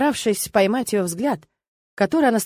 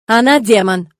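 loud, certain, angry charge; loud hostile declaration; angry accusation; 8 dB louder, slower than usual. A narrator's reading. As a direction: spit out the accusation. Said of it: "уверенно и зло заявил Алекс".

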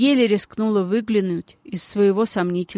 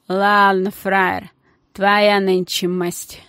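hoarse menace; 3 dB louder, much slower than usual. Acted. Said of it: "ужасный сиплый голос".

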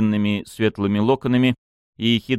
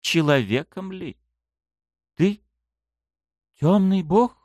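astonished; 9 semitones higher than usual. Acted. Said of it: "изумлённо прошептала девушка".

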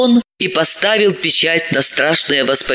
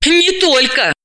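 a touch of unease, higher and short; shivery; 9 semitones higher, slower than usual. A narrator's reading. Dalila hinting at another murder, slightly uneasy. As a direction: answer with a little shiver. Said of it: "поёживаясь, сказала Далила".

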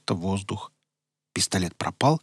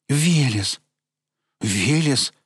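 less joyful call; 4 semitones higher, 4 dB louder, much slower than usual. Acted. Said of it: "уже не так радостно".

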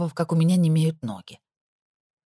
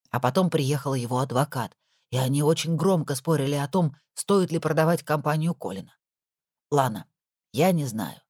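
put-on lightly lower, concerned older woman; worried housekeeper; 4 semitones lower than usual. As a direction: share the worry gently. Nora describes Colin.

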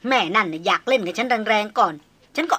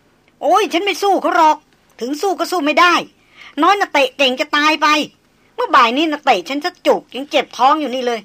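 high squeal; 6 semitones higher, 6 dB louder than usual. A narrator's reading. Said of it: "มาเรียร้องเสียงสูงลั่น".

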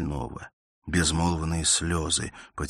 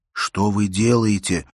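louder, slower and insistent; insistent repeat; 4 semitones higher, 7 dB louder, slower than usual. A narrator's reading. Bersenev repeats his question to Elena, louder and slower. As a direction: press the question harder. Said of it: "повторил он".

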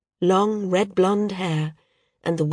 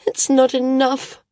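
tearful, stubborn; 7 semitones higher, 3 dB louder than usual. Acted. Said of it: "tearful, stubborn".

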